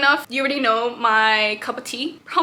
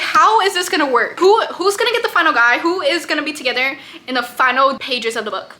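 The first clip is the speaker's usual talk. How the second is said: higher, louder worked-up reader questioning; invested reader's mock panic; frantic disbelief; 3 semitones higher, 5 dB louder than usual. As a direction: fret over the plot out loud. Acts out her frantic reaction while reading.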